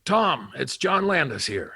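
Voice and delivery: slow phone greeting in a put-on voice; John Landis. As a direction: announce yourself slowly, imitating the director. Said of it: "he phoned me".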